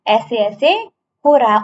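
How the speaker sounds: mock complaining boy. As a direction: lean into ऐसे-ऐसे like a sick child insisting. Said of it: "ये बोल रहा कि".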